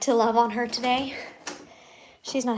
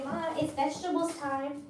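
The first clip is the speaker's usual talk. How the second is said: slightly higher, lightly voiced pet talk; 4 semitones higher, 4 dB quieter than usual. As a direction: speak up for the pet, a bit higher. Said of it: "I know, you say".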